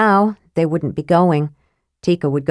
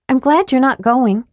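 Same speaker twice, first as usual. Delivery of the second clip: put-on young woman voice; 7 semitones higher than usual. A narrator's reading. Tika voiced by narrator.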